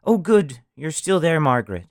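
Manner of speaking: high, stammering and breathless in a dither; a panicked mother fumbling on the phone; calling the operator, flustered and stammering. Acted. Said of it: "The woman's voice was all of a dither".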